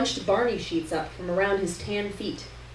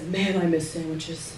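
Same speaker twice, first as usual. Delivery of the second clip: Terrence voice; 3 semitones lower than usual. A narrator's reading. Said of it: "He says".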